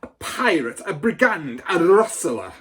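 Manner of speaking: loud, high string of accusations; screaming insults. A narrator's reading. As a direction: hurl each word at him. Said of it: "the Trunchbull screamed".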